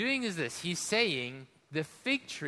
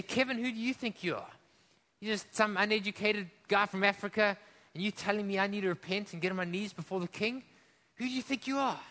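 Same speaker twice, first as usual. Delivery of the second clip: indignant challenge; 3 semitones higher than usual. Retold or imitated. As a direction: scoff at the preacher as if offended. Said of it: "anger and indignation".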